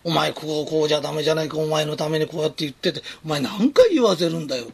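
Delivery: a hint of a whiny, nagging superior; mild nagging boss. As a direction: lightly play someone who won't stop scolding. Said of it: "相手のことをうじうじうじうじ". (軽くネチネチ説教する上司の口まね)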